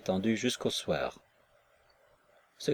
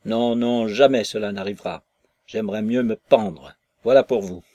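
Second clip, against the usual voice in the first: bitter refusal; 4 dB louder than usual. Acted. Maslova refuses him, near tears.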